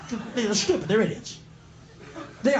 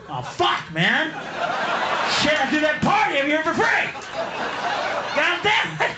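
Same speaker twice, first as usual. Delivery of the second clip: a hint of Willie cursing his luck; mock dismay; dismayed Willie, mock swearing; 5 semitones higher than usual.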